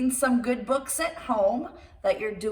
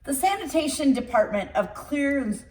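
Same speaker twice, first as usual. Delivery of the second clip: put-on lively read-aloud storytelling for children; storybook reading. Reader telling children a tall tale, lively storybook narration. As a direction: read it like bedtime story time.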